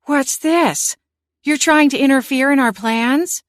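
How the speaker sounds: high, loud fiery outburst; whirling on her old familiar, furious. A narrator's reading. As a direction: lash out at the cat in fury. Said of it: "she whirled on her former familiar, fire blazing in her eyes".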